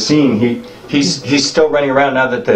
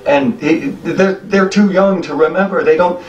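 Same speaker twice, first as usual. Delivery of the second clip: put-on higher old goblin telling of the crack; old goblin warns the strangers, voice raised and grim; old goblin explaining; 6 semitones higher than usual.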